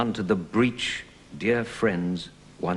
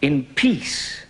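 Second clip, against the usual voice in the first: verse speaking. Shown as a demonstration. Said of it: "A regular line".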